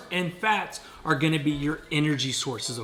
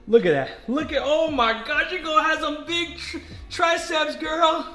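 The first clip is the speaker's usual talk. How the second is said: high, laughing, excited cheering; excited praise; 11 semitones higher than usual. Real, not acted. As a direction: cheer her on with delight. Cheering daughter lifting weights.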